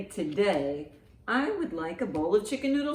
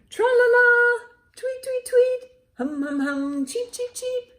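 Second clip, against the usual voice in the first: much higher twittering bird sounds; birdsong; 8 dB louder than usual. Acted. Storyteller chirps like a songbird for the children, very high. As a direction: chirp and trill like a little songbird. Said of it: "Open your beak and sing".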